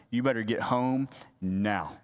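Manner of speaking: a hint of a stern grandma's warning; mean grandma voice. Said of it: "the mean grandma voice".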